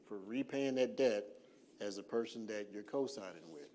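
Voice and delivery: measured, emphatic phrases with long pauses; deliberately slow. Real, not acted. Presenter warning would-be co-signers of their liability, deliberately slow. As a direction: let each point land before moving on. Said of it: "I'm talking slow on purpose".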